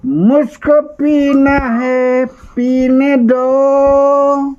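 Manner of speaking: put-on slurred drunk plea. Shown as a demonstration. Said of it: "नहीं, नहीं, भूल हो गया".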